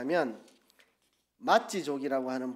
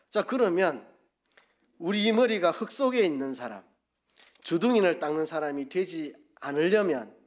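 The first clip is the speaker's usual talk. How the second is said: preaching at full force; 3 semitones higher, 4 dB louder than usual. Acted. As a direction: drive the question home from the pulpit. Preaching climax. (높고 힘찬 설교조)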